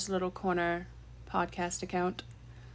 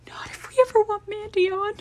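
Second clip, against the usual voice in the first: whisper; 11 semitones higher than usual. Real, not acted. Hushed warning about Mandy.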